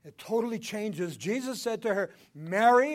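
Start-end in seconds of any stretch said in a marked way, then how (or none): 2.3-2.9 loud, high commanding call of a name. Acted. Jesus calling Mary with command. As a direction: call her name with full authority. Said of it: "it's a commanding voice".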